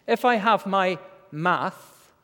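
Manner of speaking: lisping, s slurred toward sh; slushy sh for s. Real, not acted. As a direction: lisp the s sounds slushily. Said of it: "excuse my lisp".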